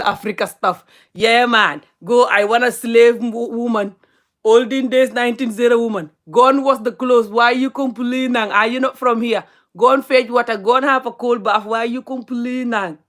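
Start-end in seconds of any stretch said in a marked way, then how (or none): 1.1-13.0 slightly raised, hectoring imitation of a demanding man; mock bossy husband. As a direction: order her about in a mock scolding. Mimics man ordering woman around.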